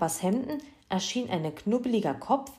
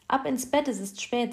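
brisk parental command, raised pitch; firm, higher-pitched bedtime order; energetic order; 7 semitones higher than usual. A narrator's reading. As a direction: send them off, no argument. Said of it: "sagte Mama Heinze energisch".

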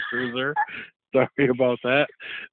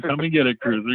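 hammed-up taunt. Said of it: "So, yeah, he's saying".

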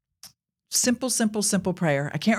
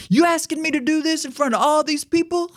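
mildly angry retort; 9 semitones higher than usual. Retold or imitated. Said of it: "starts to get a little angry".

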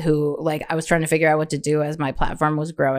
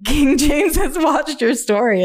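reading the notification; 8 semitones higher than usual. Retold or imitated. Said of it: "it was like".

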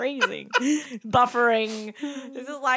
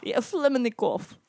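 bad Russian accent. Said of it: "this is not very good accent".

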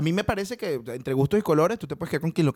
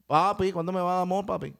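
higher, badly faked Dominican woman; attempted Dominican accent; 3 semitones higher than usual. Imagined Dominican woman asking for love, higher Caribbean-accented coaxing. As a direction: coax in a Dominican accent that slips into Puerto Rican. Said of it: "Acabas de hablar boricua".

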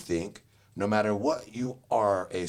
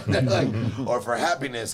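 laughing; 3 semitones higher, 4 dB louder than usual. Real, not acted. Laugh heard.

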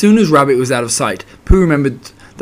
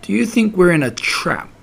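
higher, mildly anxious question; nervous; 6 semitones higher than usual. A narrator's reading. Piglet wondering if they are trapped, nervous. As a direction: ask it with a touch of worry. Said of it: "he went on nervously".

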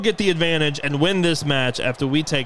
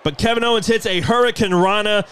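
wrestling commentator; 3 semitones higher than usual. Acted. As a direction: call the match action with rising energy. Live play-by-play call.

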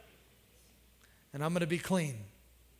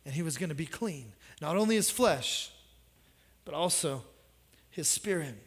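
hushed; 6 semitones lower, 6 dB quieter than usual. Real, not acted. Preacher hushes the congregation about being clean. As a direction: drop right down, quiet and quick, then linger.

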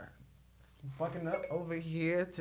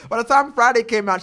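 laughing; 3 semitones higher, 6 dB louder than usual. Real, not acted. Laughing retake of the line.

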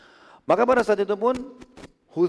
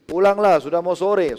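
Abbas's imitated shout; 3 semitones higher, 6 dB louder than usual. Man calling his goatherd home from his house, imitated loud shout. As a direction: call it out as if across a distance. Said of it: "Dia dari depan rumahnya teriak".

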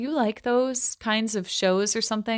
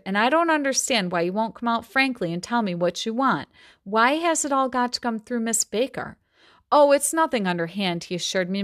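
measured novel reading voice; story reading. A narrator's reading. Teacher reading a Gatsby passage aloud, steady storytelling. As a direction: read the passage to the class.

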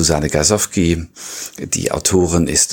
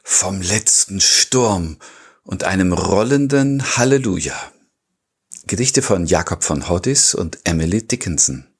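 episode title announcement; 2 semitones higher than usual. Acted. Host presenting the episode and its poets to listeners, formal announcement. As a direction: announce the episode title, giving each phrase room.

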